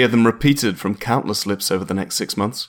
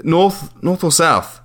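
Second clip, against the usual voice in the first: slow and higher, overclear; slow, careful question; 7 semitones higher, slower than usual. Acted. Caller narrowing it down with the landlady, slow. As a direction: spell out the options.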